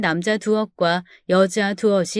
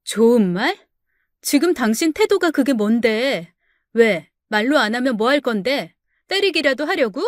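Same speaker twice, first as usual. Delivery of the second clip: defiant wife. Acted. Wife defies her threatening husband, challenging. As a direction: dare him to go further.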